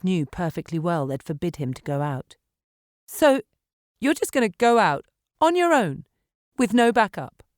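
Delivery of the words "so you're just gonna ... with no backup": alarmed challenge. A narrator's reading. Meg challenging him, alarmed.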